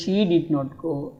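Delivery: very slow, each word spaced out; slow classroom model sentence; slow drill. Shown as a demonstration. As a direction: say it word by word for learners. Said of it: "அவள் போகவில்லை".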